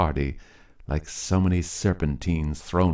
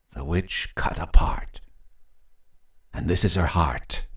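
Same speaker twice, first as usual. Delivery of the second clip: hushed, breathy spooky rhyme; whispered rhyme. A narrator's reading. Husband passing the heart, hushed spooky whisper. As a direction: whisper it like a secret curse.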